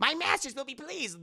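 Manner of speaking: lightly voiced villain's minion; bat minion. Retold line of the bat villain.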